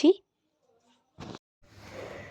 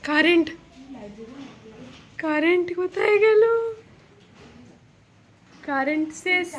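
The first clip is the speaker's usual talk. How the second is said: surprised; 4 semitones higher than usual. Real, not acted. Power cut during storm.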